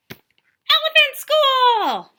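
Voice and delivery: high, loud burst on school; excited shout. Acted. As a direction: blurt the ending triumphantly. Chicken hijacks the ending.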